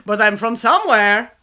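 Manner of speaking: put-on loud, comic German-Russian accent; laughing through a hammy German-Russian accent; vague German-Russian. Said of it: "sometimes he sounded German and sometimes he sounded Russian".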